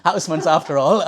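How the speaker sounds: said through a light laugh; amused aside. Real, not acted. Speaker joking to the audience about being in Houseman's, amused.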